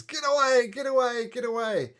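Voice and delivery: high, loud yell to warn them off; yelling at soldiers. Acted. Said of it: "Yelling at the soldiers".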